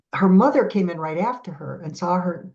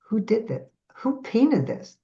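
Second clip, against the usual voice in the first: baffled; 4 semitones higher than usual. Retold or imitated. Astonished at her own painting.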